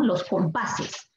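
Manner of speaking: "Los compases" said slowly, "compases" syllable by syllable; slow model. Shown as a demonstration. Teacher modelling the plural for students, slowly. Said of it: "models plural".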